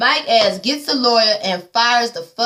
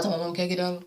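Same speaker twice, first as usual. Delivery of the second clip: put-on timid child; 4 semitones lower, 10 dB quieter, faster than usual. Child voice, scene with mama.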